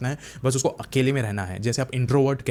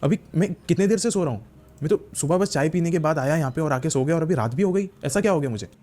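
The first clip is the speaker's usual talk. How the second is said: slightly hammed-up confusion, higher pitch; bewildered questioning; 5 semitones higher than usual. Prisoner asking his cellmate what happened, acted bewilderment. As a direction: puzzle aloud at lost time.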